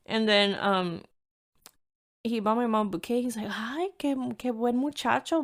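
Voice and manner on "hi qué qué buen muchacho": lightly voiced impressed Hispanic mom; a hint of a gushing mom. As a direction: imitate a mom approving of a suitor. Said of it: "You know, Hispanic moms, they get impressed".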